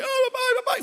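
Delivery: high-pitched mock wail for mummy; imitated crying child. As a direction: wail like a hurt little girl, playfully.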